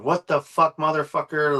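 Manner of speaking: mock the guy swearing at you, up high; retold angry outburst. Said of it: "He called me up and gave me".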